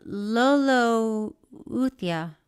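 Lolo Uthia sounded out very slowly, stretched; unsure name reading. Real, not acted. Host reading an unfamiliar fan name, Lolo Uthia sounded out slowly. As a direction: draw out Lolo Uthia, guessing at the pronunciation. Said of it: "That can't be how you say it".

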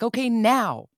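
hammed-up cue to cry; mock command to cry. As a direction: playfully order the tears to start, with a laugh.

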